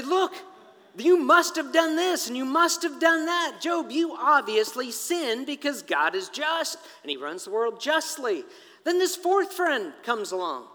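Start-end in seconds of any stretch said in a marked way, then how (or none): 0.0-8.4 raised, emphatic accusation; accusing. Acted. Friends insisting to Job he must have sinned, accusing. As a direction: press the charge hard, louder at the start.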